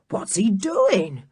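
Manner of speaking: slow anxious whisper. Acted. George to the others, an anxious whisper. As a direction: breathe the question.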